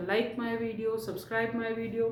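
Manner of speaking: slow, measured request to viewers; unhurried sign-off plea; speaking slowly. Real, not acted. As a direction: take your time over each request. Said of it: "इतना अच्छा धीरे धीरे बोल रही हूँ".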